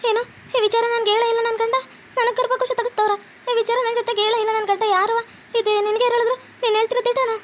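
high-pitched, stunned questioning; shocked disbelief. Acted. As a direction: question it as if reeling from the news. Wife stunned by husband's secret.

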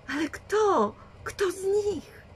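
wysoko, z płaczem w głosie; płaczliwe pytanie. A narrator's reading. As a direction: pytaj przez łzy, przerażona. Renisenp w szoku, płacz. (rozpaczliwe pytanie ze łzami)

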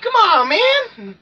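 high, slow, drawn-out plea; exasperated wail. Real, not acted. Player failing a jump, high drawn-out exasperated cry. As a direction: stretch it out in pure frustration. Frustrated at game.

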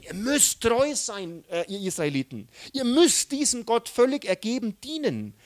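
loud, high stern orders to the people; commanding Moses. Retold or imitated. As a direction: Moses swearing the Israelites to obedience, loud. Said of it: "Er würde dem Volk gebieten".

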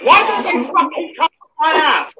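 yells the threat, laughing through it; angry caller daring him to come over; furious laughing shout. Real, not acted. Caller shouting a threat down the line with a laugh.

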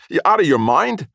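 high, loud, horrified shout; yelling. A narrator's reading. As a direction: yell to stop him wrecking it. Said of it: "Oscar yelled".

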